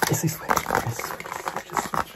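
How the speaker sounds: loud eager reveal; excited reveal. Real, not acted. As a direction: announce it with glee.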